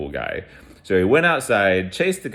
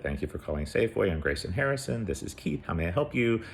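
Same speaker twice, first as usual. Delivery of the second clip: quick, softer customer-service patter; rote phone greeting; 6 dB quieter, faster than usual. Retold or imitated. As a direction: rattle off the store greeting, quickly and quietly. Acts out his phone greeting.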